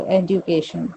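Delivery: "एजुकेशन" as "ed-yoo-kay-shun"; full U sound. Shown as a demonstration. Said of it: "यू को पूरा बोलेंगे वो".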